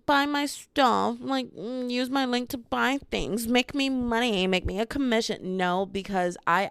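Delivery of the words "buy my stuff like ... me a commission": lightly voiced pushy influencer, slightly higher; a hint of a salesy influencer; mock influencer. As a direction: parody a link-pushing influencer. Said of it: "not to become like a".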